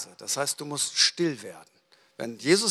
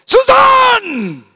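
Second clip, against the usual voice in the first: full-force shout, much higher and louder; bellowing; 15 dB louder than usual. Acted. Husband roars at his wife as she comes in, bellowing. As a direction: yell the name in one long blast. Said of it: "brüllt er".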